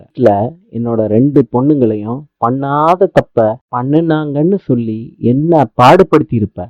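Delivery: low, restrained threat; controlled warning. Acted. Mother warning Chitra she will protect her daughters, controlled threat. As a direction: warn her in a low, measured voice.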